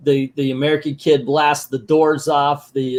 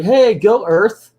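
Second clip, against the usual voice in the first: raised-pitch pretend cheer; mock cheering; 6 semitones higher, 4 dB louder, slower than usual. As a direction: chant it like kids rooting for a hero. Imitates kids cheering on.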